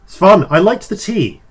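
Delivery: playful high trickster voice; a sly, gleeful fey figure; mischievous goat-horned figure. Acted.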